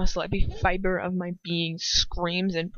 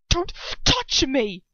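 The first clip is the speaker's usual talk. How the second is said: slow, raised, hateful warning; hissed; 5 semitones higher, 4 dB louder, slower than usual. A narrator's reading. Ron shaking off Hermione's hand, hissing with hatred. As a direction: spit it out slowly with hatred. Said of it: "he hisses".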